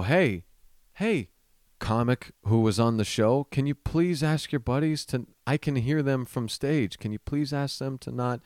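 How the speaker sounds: politely plead, pitch climbing; exasperated plea. Retold or imitated. Retold plea from stage.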